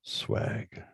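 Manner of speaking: imitating slang. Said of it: "she says swag".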